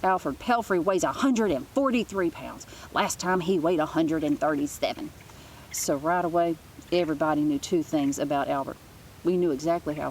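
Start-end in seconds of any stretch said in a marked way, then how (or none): 0.0-5.1 mock yell. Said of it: "she would yell at recess".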